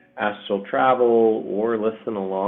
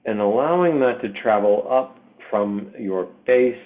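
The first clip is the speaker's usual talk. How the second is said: measured meditation voice with long pauses between phrases; guided meditation. Acted. Meditation leader to listeners connecting to the earth, guided meditation.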